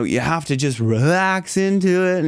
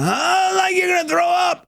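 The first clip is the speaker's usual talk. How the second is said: much higher, strained retch-like push; retching demo. Shown as a demonstration. Coach demonstrating the gut feeling of throwing up. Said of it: "like that feeling like you're gonna".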